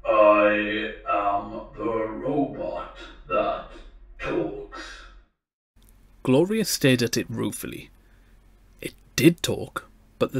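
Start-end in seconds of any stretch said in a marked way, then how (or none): 0.1-4.8 very slow monotone robot, no intonation; mechanical robot voice. A narrator's reading. The talking robot answers the girl, toneless mechanical voice. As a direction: drag out each word like a machine. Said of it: "mechanically timbered voice boomed out in words that lacked accent and intonation".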